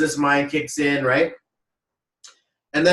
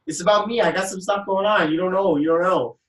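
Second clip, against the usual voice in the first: high-pitched mock defensiveness; acted-out pleading to back off; retold defensive protest; 6 semitones higher than usual. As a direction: fend them off in a raised pitch. Acting out own quarrel reply.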